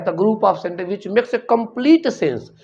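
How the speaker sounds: very slow, dictating word by word; slow recitation. Shown as a demonstration. Teacher dictating a definition to the class, very slow. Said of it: "कहा गया है".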